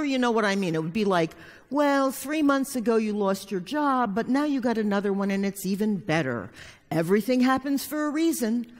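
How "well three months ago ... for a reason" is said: mock platitude. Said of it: "people who say".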